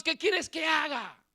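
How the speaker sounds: slow anguished shout; shout to God. Retold or imitated. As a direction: cry it out slowly at God, demanding. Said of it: "y le gritaba a Dios". (grito lento y angustiado a Dios)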